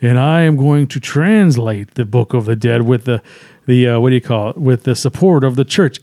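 a hint of a spooky narrator. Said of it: "spooky voice".

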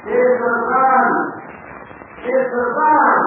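shouted call from far below. Acted. Calling up from the shaft.

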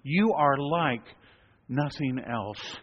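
slow, reverent; slow adoring prayer line; reverent worship. Shown as a demonstration. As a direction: say it as an act of worship. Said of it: "the very act of saying this is an act of worship".

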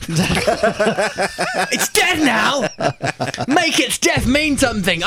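very high frantic pleading. Acted. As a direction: squeal it in desperation. Dubbed high shouting.

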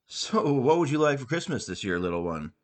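lightly voiced jolly Santa, pitch up then down; a hint of a cheerful Santa Claus. Santa asking a child his Christmas wish, lightly jolly. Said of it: "Santa Claus asked Ronald cheerfully".

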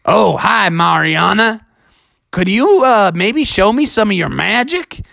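a hint of eager story hero; hopeful Bubby. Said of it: "And he said".

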